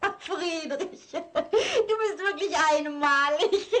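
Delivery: slow and fond, laughing through the words; fond laughter. Acted. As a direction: laugh affectionately at him while saying it. Wife amused by husband's pastries. (lachend und zärtlich zu ihrem Mann)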